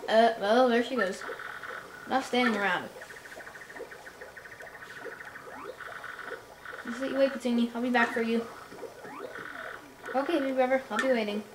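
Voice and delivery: lightly voiced cranky old elder and young punies; game characters voiced. Player voicing the puny elder scolding young Punio, lightly voiced. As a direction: read the dialogue lines in character voices.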